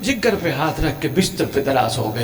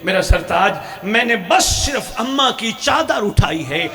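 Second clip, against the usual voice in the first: tearful plea; 3 semitones higher than usual. Acted. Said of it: "شام والی رو کے کہتی ہیں".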